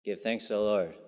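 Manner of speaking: understated, casual shrug of a reading; unthinking acceptance. Retold or imitated. Preacher voices a surface reading of the psalm, offhand. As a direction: say it as if it needs no thought. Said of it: "without a lot of thought".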